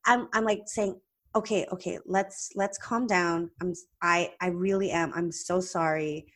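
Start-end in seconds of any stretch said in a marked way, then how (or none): 1.3-6.3 calming, apologetic. Retold or imitated. Calming an angry patient.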